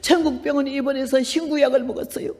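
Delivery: 천국 said lightly through a laugh; 천국 병원에 said with a laugh; laughing answer. Retold or imitated. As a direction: chuckle on 천국 병원에 as a cheeky reply. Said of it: "그래서".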